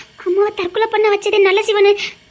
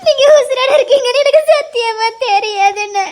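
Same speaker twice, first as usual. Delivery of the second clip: crying it out; sobbing lament. Acted. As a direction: pour out years of grief. Sister crying over lonely years. (அழுது புலம்புதல்)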